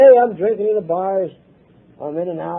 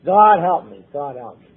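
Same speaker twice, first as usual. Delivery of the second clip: desperate prayer; 5 semitones lower than usual. Retold or imitated. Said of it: "desperate prayer that every drunk hollers".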